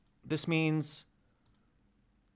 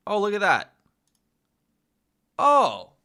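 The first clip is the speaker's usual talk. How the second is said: sudden higher, louder oh of discovery; delighted surprise; 7 semitones higher, 9 dB louder than usual. Real, not acted. Learner finds the app feature, surprised and delighted. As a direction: pleasantly caught off guard.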